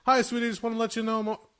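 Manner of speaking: sing-song the greeting like a wife on the phone; mock cheerful wife calling; imitating wife. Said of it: "Jen calls".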